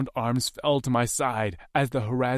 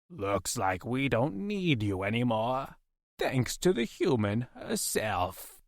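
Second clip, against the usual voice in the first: a touch slower, softer menace; cold captor threat; 3 dB quieter than usual. Acted. Captor holding a knife to his chin, soft menace. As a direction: threaten him quietly.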